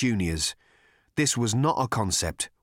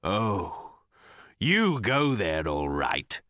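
slow, muttered and defeated; broken voice; much slower than usual. Acted. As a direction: mutter it, voice breaking. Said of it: "muttered Agrajag in a broken voice".

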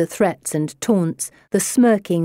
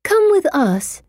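high, slow, coaxing condescension; talking down to child; 10 semitones higher than usual. A narrator's reading. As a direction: coax slowly as if to a small child. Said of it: "treating me like a child".

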